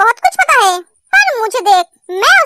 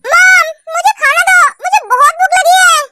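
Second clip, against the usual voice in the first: hungry whine; 4 semitones higher than usual. Acted. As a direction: whine for food, stretching it out. Sleepy girl forgets where she is, demands food. (भूख से ठुनकते हुए, ऊँची आवाज़ में)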